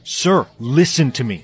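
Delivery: loud, slow, insistent appeal; urgent protest. Acted. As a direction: raise your voice to make the boss listen. Pleading against an order to kill.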